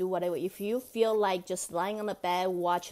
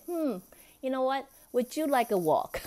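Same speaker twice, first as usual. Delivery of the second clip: lilting, coaxing offer pitched higher; coaxing invitation; 6 semitones higher than usual. Pretend. Inviting the grumpy inner child for a walk, coaxing. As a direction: tempt a reluctant child outside. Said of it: "I would say".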